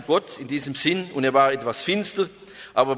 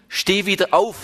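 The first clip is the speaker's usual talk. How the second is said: higher, louder summons; rousing call; 6 semitones higher, 4 dB louder than usual. Acted. Preacher calls the congregation to get back up. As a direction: lift the listener up with the call.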